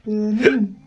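Birmingham said in its own accent. Shown as a demonstration. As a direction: try the city's name in Brummie. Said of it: "that was a really good impression".

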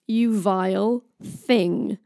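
slow, emphatic acted insult; drawn-out mock condemnation; Thor. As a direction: lightly play an indignant god, spacing each word. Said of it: "I got two in character".

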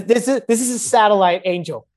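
words breaking into high laughter; real laughter cracking the voice; laughing. Real, not acted. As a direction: laugh through it, pitch jumping up. Laughing through his own story.

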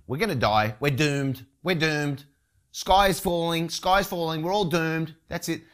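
a frightened sailor crying out they're doomed; mock panic. Disciples in the sinking boat, mock panicked wail.

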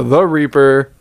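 lightly hammed-up name announcement; seventies announcer. Co-host introducing himself by nickname, mock seventies announcer. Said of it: "the Reaper sounds a little seventy-ish".

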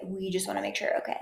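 fast unvoiced breathy whisper; breathy Meghan imitation. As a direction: breathe it out fast and hushed, faking concern. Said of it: "breathy and nasally".

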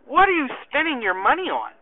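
puzzled questioning. Retold or imitated. Sergeant quizzing his soldier about his budget, puzzled. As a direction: ask it openly, with a lift on WHAT. First asking, before the serious retake.

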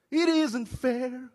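an indignant cry of unfairness; angry complaint to God. Retold or imitated. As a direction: rail at God like you've been cheated.

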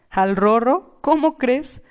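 high, incredulous protest. Acted. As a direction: scoff at the very idea. Aunt protects parrot, incredulous.

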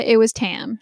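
imitated sarcastic "duh"; lightly mock how obvious it is; retold sarcasm, stating the obvious. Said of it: "sarcastic voice".

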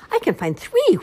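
high, loud joyful whoop. Acted. Bunny whooping after spotting the third egg. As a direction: cheer out the find. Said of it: "whooped Hoppy".

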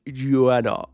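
"Joanna" said as a grand, drawn-out name; mock-fancy "Joanna", falling at the end; affected pronunciation. Shown as a demonstration. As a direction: show off "Joanna" with each syllable sounded out. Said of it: "You gotta say it like this".

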